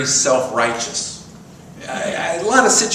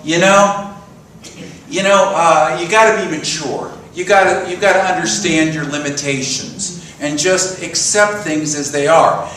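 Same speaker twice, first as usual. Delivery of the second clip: inner defeatist voice; 2 semitones higher, 3 dB louder than usual. Retold or imitated. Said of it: "that part of me that was saying to myself".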